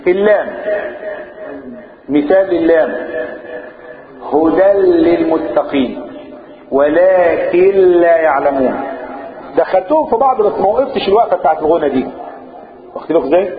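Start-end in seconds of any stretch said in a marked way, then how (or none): 4.3-8.8 slow drawn-out recitation of the examples; Quran recitation. Shown as a demonstration. Teacher reciting examples of idgham without ghunna. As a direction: recite slowly, merging the lam.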